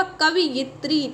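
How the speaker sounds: कवयित्री drawn out slowly, syllable by syllable; slow careful pronunciation. Shown as a demonstration. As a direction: spell out कवयित्री by ear, slowly. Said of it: "कैसे सही होगा". (कवयित्री को धीरे, अक्षर-अक्षर बोलें)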